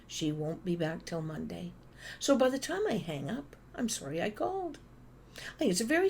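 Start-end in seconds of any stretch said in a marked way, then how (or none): 0.1-1.7 receptionist brush-off. Retold or imitated. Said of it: "they say". 3.7-4.8 higher, wry and rueful; pitched-up ironic quip; wry punchline. Real, not acted. Punchline of phone story.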